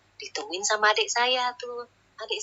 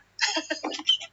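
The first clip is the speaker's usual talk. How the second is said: imitated ghost giggle; 13 semitones higher than usual. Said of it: "sambil nyengir".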